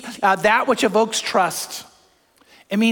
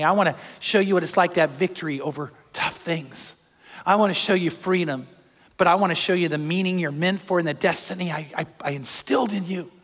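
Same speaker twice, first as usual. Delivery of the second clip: softer, tender invitation as God; God calling a listener to trust, softly; voicing God gently; 3 semitones lower, 3 dB quieter than usual. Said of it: "You know what God's saying?".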